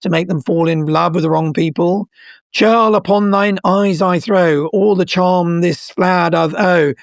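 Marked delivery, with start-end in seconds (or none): 2.5-6.9 reciting Puck's spell. Acted. Quoting Puck's charm to the lovers, slow and incanted. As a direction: chant it like a spell. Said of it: "when Puck is squeezing the magic potion".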